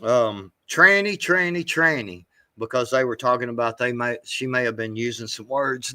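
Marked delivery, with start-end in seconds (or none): 0.7-2.2 mocking quote. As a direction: parrot her taunting it. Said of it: "and was like".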